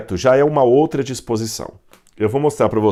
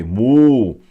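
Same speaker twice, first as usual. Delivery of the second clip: mooed mu; 3 dB louder than usual. Shown as a demonstration. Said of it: "O som que o boi faz".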